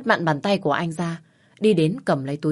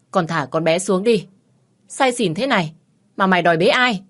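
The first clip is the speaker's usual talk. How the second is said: scolding mother; 3 semitones higher, 6 dB louder than usual. Acted. Mother scolding drunk son.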